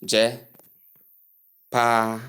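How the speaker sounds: "je pa" split, with long AH; wrong long vowel. Shown as a demonstration. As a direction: break out "je pa" to show the error. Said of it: "long R sound".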